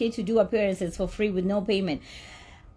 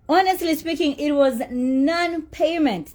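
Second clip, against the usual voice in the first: near tears; 5 semitones higher than usual. Real, not acted. Telling viewers she went unpaid, on the verge of tears. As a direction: voice breaking, slow and higher. Upset over not being paid.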